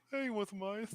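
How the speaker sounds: mock a demon offering ice; lightly voiced demon. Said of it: "the demon inside is like".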